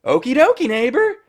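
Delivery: high, loud sitcom neighbor voice; Kathryn Hahn. Retold or imitated. Agnes flipping back into character for Vision, hammed-up sitcom voice. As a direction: flip into a perky, tropey sitcom character. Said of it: "tropey Kathryn Hahn voice that she has".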